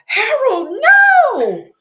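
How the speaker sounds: high, loud panicked yell; frantic yell at the dog. Retold or imitated. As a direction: shout it after a runaway dog. Neighbor yelling at her dog.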